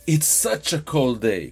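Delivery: SUCH stressed in a drawn-out, slow emphatic line; emphatic intonation. Shown as a demonstration. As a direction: lean on "such" and let the tune fall. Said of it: "con esa entonación".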